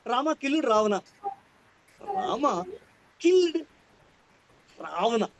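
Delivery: Rama, killed, Ravana each set apart by gaps; word by word with pauses. Shown as a demonstration. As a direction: separate every word, killed high. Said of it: "suppose".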